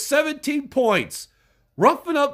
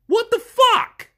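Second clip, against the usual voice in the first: exasperated outburst; 11 semitones higher, 3 dB louder than usual. Real, not acted.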